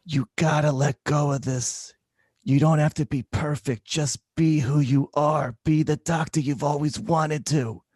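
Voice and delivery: lightly voiced old patient; a hint of a kind elderly woman; gentle old lady. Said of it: "patient advises doctor".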